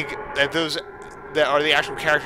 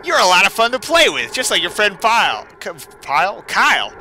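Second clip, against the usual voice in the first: menacing villain; 5 semitones higher, 7 dB louder than usual. Acted. Reads Sonic.exe threats.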